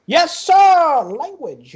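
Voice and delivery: high, loud burst dropping to a scolding; booth boss's rebuke. Acted. Booth boss answers a swearing customer, loud then reproving. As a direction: answer brightly and loudly, then chide.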